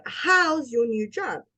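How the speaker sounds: interested question with "how's" up and "job" falling; rise on HOW'S. Shown as a demonstration. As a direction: lift "how's" to show you want the answer. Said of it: "The reason how is up".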